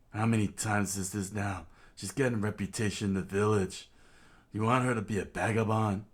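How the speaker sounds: a touch of exasperated village constable; lightly voiced scolding lawman; stern lawman lecturing. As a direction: lecture them like an indignant local cop. Genzo berates Belmere and child.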